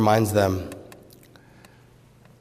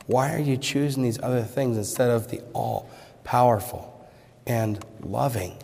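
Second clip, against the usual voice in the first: normal talking voice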